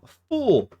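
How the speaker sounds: high shouted taunt; catchphrase shout. Acted. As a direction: yell it up high as a mock insult. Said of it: "that's something I haven't said in a while".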